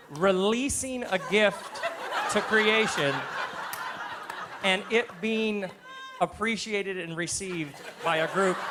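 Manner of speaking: mock-grand, loud and laughing; lofty words through big loud laughter. Real, not acted. Laughing at his own toddler story to the crowd.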